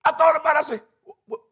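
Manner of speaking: laughing. Real, not acted. Laughing at himself.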